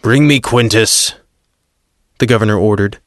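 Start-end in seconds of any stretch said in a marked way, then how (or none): 0.0-1.1 a touch of irritation in the order; clipped command, mildly annoyed; growing annoyance. Acted. Pilate orders his servant, with understated annoyance. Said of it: "annoyance growing in his voice".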